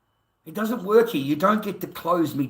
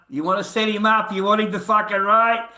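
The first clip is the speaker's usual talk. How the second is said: raised, higher-pitched angry outburst; angry shout; 6 semitones higher, 8 dB louder than usual. Real, not acted. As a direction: round on him loudly, voice climbing. Irritated streamer rounding on a questioner.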